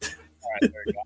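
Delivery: muffled and distant. Real, not acted. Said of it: "you sound muffled and distant".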